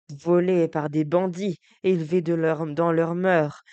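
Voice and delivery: plus fort, indigné; lance-le avec colère; indignation. Acted. Indignant declamation. (avec indignation, plus fort)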